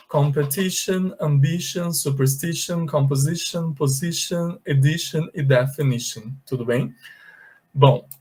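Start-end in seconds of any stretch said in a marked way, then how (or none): 0.1-6.3 competition to definition, each i said as ee; model reading. Shown as a demonstration. Teacher rereading the list for the class. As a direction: read the list with a clear ee sound. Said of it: "o i com som de i mesmo".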